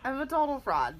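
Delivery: laughing, calling herself a fraud; mock confession through laughs; laughing self-mockery.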